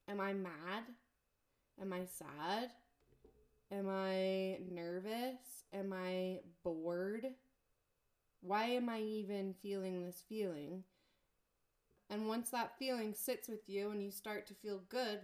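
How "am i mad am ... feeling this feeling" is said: slow, searching self-questions; slow self-questioning. Shown as a demonstration. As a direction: ask yourself slowly, one by one. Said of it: "Sit there and think".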